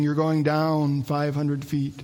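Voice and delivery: slow, drawn-out ride announcer; loudspeaker announcer. Retold or imitated. Ride loudspeaker booming to a lone boy, slow announcer voice. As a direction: stretch each word like a spooky PA voice. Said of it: "all I hear is this voice saying".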